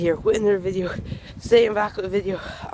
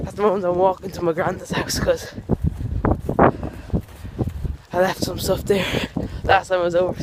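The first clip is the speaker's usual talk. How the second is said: out of breath. Real, not acted. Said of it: "I feel like I'm out of breath".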